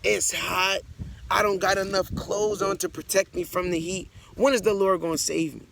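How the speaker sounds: acted desperate plea. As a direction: cry out to the Lord for rescue, hungry and hot. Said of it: "crying to the Lord every day".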